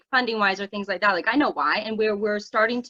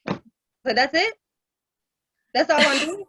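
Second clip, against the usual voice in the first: high, tearful retold wail; hammed-up weepy disbelief; mock boo-hoo crying; 5 semitones higher, 3 dB louder, slower than usual. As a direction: imitate crying in a squeaky high voice. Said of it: "like, boo-hoo crying".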